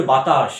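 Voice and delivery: বাতাস with a hissing final স; hissing sibilant. Shown as a demonstration. Teacher showing why it is called sibilant, বাতাস ending in a hiss. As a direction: let the end of বাতাস hiss like শ. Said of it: "এই যে একটা শ".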